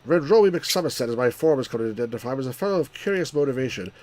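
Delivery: put-on British accent character voice. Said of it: "with the British voice that you used before".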